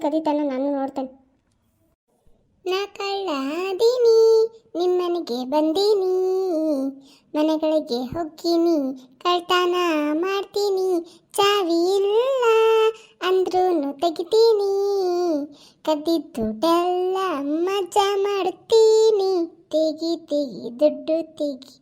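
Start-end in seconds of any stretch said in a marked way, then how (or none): 2.6-19.3 slow, gloating burglar bragging; unhurried thief savouring his plans; slow scheming thief. Acted. 19.7-21.7 low, slow, softer thief's threat; slow hushed robber's demand; menacing thief. Acted.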